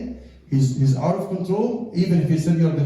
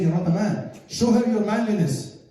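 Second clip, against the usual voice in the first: higher-pitched taunting devil's urging; goading; 6 semitones higher than usual. Acted. Shaitan eggs the husband on in a quarrel, goading. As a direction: needle him into proving himself.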